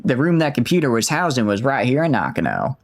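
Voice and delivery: put-on slipping Aussie accent; amateur Australian, half lost; attempted Australian accent. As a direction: try to keep the Australian going. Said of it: "I've, I've lost the accent".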